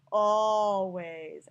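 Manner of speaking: ALWAYS with long, stretched vowels; drawn-out vowels. Shown as a demonstration. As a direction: draw out the first vowel of ALWAYS. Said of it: "certain vowels are drawn out".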